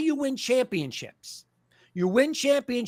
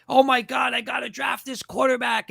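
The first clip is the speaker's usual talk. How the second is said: higher, hammed-up fan outcry; mock panicked fan; 3 semitones higher than usual. Host mocking fans desperate for a quarterback, hammed-up cry. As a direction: ham up a frantic draft fan. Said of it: "so comical with".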